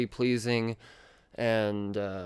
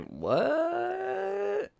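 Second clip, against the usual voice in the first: squealed high laughing what; 3 dB quieter than usual. Real, not acted. Reviewer laughing at the absurd villain reveal. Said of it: "laughing disbelief".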